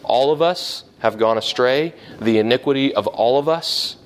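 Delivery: "All of us" lifted at both ends of the verse; emphasis on repetition. Shown as a demonstration. Preacher shows the verse's bookends, stressing "all of us". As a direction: let each "all of us" stand out with a rising tune. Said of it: "I tried to draw out there in verse six the repetition of".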